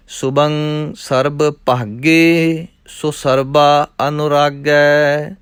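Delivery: measured, rhythmic chanting of verses; scripture recitation. Acted. Teacher reciting scripture for students, rhythmic and measured. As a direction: recite each line as sacred text, evenly.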